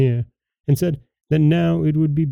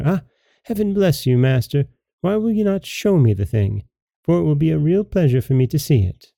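higher, put-on simple servant voice; playing silly; 3 semitones higher than usual. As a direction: act dumb and innocent. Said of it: "pretended to be silly and stupid".

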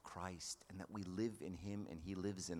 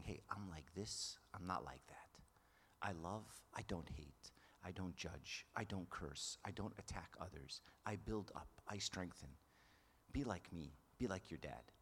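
soft, lowered, partly whispered fatherly plea; tender fatherly voice; 4 dB quieter than usual. Pretend. God as a father softly urging his child. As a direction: gently coax a child to follow you.

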